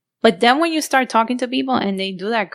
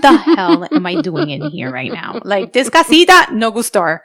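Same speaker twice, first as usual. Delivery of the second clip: mock panicked outburst; 4 semitones higher, 8 dB louder than usual. Retold panic at the creepy house.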